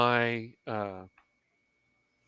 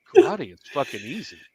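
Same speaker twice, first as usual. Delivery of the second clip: cocky boast; 6 dB louder than usual. Retold or imitated. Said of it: "And I'm like".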